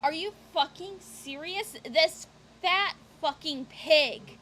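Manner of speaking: slow, loud and appalled, spitting the insult; real anger at what she's watching; disgusted outrage. Real, not acted. Streamer reacting to abuse footage, outraged and loud.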